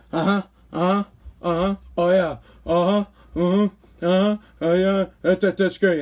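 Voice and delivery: nod along, mind elsewhere; fake listening. Husband tuning out a buddy's story, absent murmurs. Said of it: "same thing ... I do to my wife".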